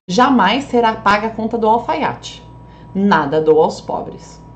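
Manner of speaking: "Jamais será paga" as one firm denial; statement intonation. Shown as a demonstration. Teacher reading the sister's version, "Jamais será paga" as a statement. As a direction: run "Jamais" into "será paga", falling on "alfaiate". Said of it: "pra deixar pra irmã, ó".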